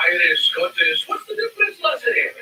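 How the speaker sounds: badly faked Scottish brogue that could pass for Irish; attempted Scottish accent. Told it sounds Irish, brushing it off in a mock Scottish accent. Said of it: "Scottish accent".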